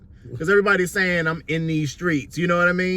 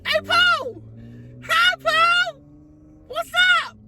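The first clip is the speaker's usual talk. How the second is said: high sing-song calls to a pet; much slower than usual. Real, not acted. Calling to a dog.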